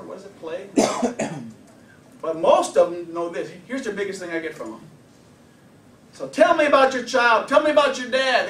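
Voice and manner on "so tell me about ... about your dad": questioning client. Retold or imitated. Counselor asking client in session.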